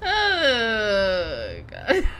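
can't believe what you just saw; loud disbelief. Real, not acted. Vlogger reacting loudly to the smashed shredder.

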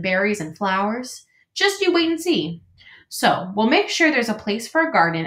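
chatty, welcoming beaver; friendly beaver voice. Acted.

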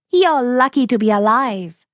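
high, smug fox voice; sly fox enjoying his trick; gloating fox. Acted. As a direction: fox smugly teasing the tiger, high-pitched.

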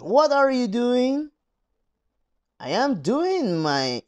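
slow, careful English pronunciation demo; model dialogue read. Shown as a demonstration. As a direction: read the dialogue slowly for learners to copy. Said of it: "te voy a grabar otra vez o decir la pronunciación". (lectura lenta y clara de pronunciación inglesa)

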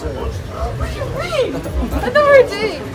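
high, hammed-up dismay; mock shock. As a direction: fake heartbroken surprise. Jilted by fake boyfriend.

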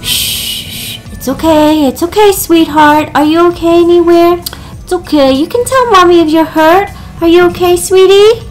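soothing mom; worried parent. Acted. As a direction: gently hush and reassure her. Mom soothing hurt daughter.

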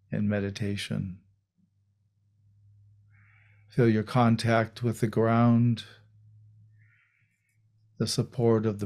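unhurried meditation guidance with long pauses; guided meditation. Real, not acted. Teacher guiding a group into meditation, calm and unhurried. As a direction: settle into a calm voice, leaving space between phrases.

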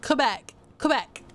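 Quebec said the French way, "kuh-bec"; French pronunciation. Shown as a demonstration. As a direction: say Quebec twice with a plain K and no W. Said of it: "I think the French pronounce it".

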